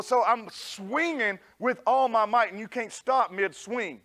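ordinary talk, nothing marked

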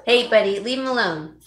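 loud call to the dog; loud order to a pet dog. Real, not acted. Scolding dog attacking roommate.

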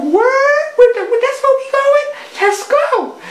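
high, loud surprised cartoon van; voiced van. Van excited about the trip, squealing high and loud. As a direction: squeal like an eager little car. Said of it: "She's like".

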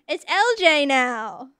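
L J. Pretend. Trying out a friend's voice, light impression. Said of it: "Can I do a good L J impression?".

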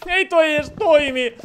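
exasperated. Real, not acted. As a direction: stretch "Ei" out in mock despair.

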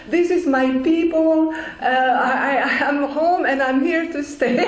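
retold plea, pitched high and giggly; pleading, half laughing. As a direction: laughingly beg to stay in heaven. Pleading with Jesus not to return.

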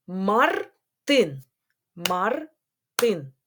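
МАРТИН split into Мар... тин; syllable by syllable. Shown as a demonstration. Teacher counting syllables with pupils, syllable by syllable. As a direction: say МАРТИН in two parts with a clear gap. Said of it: "на склади".

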